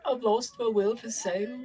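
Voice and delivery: high squeaky vole voice, sinking to sorrow; a sad old vole who gave up sailing; mournful vole. Acted. Vole voice, ship talk.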